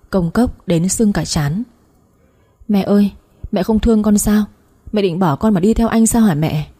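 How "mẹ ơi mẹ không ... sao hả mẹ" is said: plaintive pleading, lightly acted; mild tearful whimper. Daughter begging mother to stay, in mildly tearful pleading. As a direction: plead as if close to tears. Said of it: "Con Lan mếu máo".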